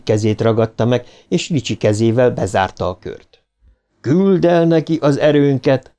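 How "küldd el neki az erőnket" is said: strange deep voice. A narrator's reading. Bill commands the force to help Mike, strange deep voice. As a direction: command it like something else speaks through him. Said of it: "ugyanazon a furcsa, mély hangon".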